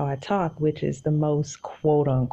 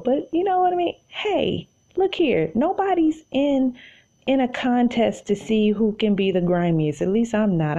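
animated aside; 6 semitones higher than usual. Real, not acted. Excited aside, high-pitched.

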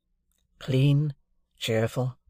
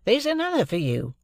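Wemmick voice; 9 semitones higher than usual. A narrator's reading. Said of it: "a still more tremendous one".

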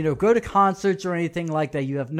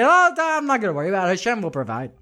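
lazy believer; 3 semitones higher, faster than usual. Retold or imitated. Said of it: "Lazy people just say".

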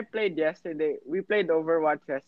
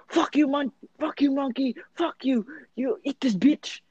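higher-pitched mock cursing at a monkey; imitated angry gamer; 7 semitones higher than usual. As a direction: imitate a comically outraged accented player. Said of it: "he'd be like".

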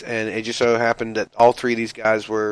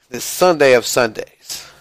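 ordinary talk, nothing marked

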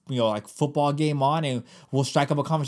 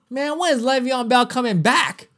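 casual sports-fan line; 8 semitones higher than usual. Shown as a demonstration. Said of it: "so you say".

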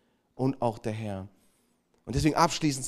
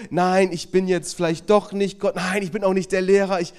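mock false modesty; 4 semitones higher, 5 dB louder than usual. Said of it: "diese falsche Bescheidenheit".

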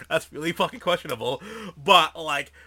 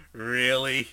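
laughing really; 4 semitones lower than usual. Retold or imitated. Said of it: "fucking Chronic goes".

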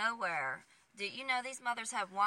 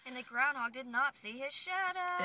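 playful proclamation; 4 semitones higher than usual. Pretend. Playful mock announcement of groundhog news.

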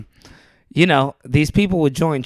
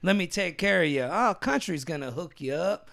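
Big Country's fake accent; 3 semitones higher, 3 dB quieter than usual. Salesman hooking customers at Big Country Motors, fake country accent. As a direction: put on a folksy country-boy accent. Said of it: "but he faked this accent".

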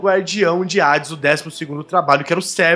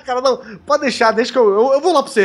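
eager Atlas voice; 4 semitones higher, faster than usual. Pretend.

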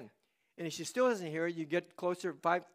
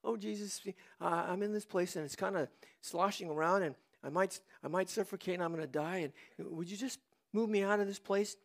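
soft, hesitant mock prayer; demure prayer; 6 dB quieter than usual. Preacher parodying a silent prayer from the fish's belly, meek and soft. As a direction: murmur a timid, polite little plea. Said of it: "he didn't pray demurely like".

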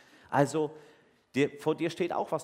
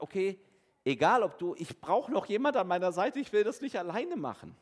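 higher and louder, pressing for a helper; mock-earnest plea for company; bargaining Moses; 6 semitones higher, 6 dB louder than usual. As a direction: Moses caving in but haggling. Moses voiced giving in, bargaining.

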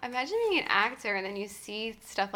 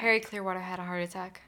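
fast; faster than usual. Shown as a demonstration. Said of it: "say it five times fast".

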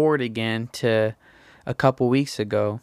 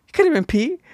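higher, louder insistence on "could"; insistent; 4 dB louder, faster than usual. Retold or imitated. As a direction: push harder this time. Shifting blame, repeated.

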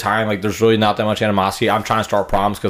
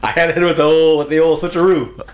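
higher, put-on brag; hammed-up switcheroo voice; 6 semitones higher than usual. Bragging to the co-host in a hammed-up showman voice. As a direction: play it like a cheesy showman.

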